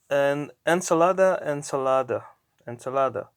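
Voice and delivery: "ensalada" stressed on LA; stress on second-to-last syllable. Shown as a demonstration. Teacher showing the stress rule, penultimate syllable stressed. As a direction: lean on the LA in "ensalada". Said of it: "the emphasis goes to the second to last syllable".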